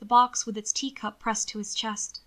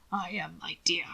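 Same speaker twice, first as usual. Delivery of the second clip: whisper; 4 semitones lower, 5 dB quieter than usual. A narrator's reading. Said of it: "Grandfather whispered".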